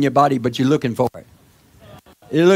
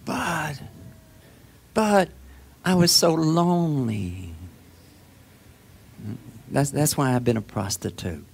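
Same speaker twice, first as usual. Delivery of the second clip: pleading sinner. Pretend. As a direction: play the sinner pleading his excuses. Voices a sinner's excuses.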